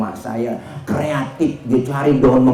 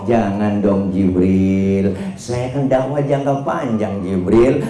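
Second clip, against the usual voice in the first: gentle pleading; 2 semitones lower, slower than usual. Acted. Prophet pleading with Jibril to hold off, gently coaxing. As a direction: calmly talk the angel out of it.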